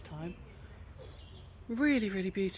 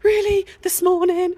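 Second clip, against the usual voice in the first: exasperated disbelief; 11 semitones higher, 12 dB louder than usual. Retold or imitated. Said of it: "I was just like".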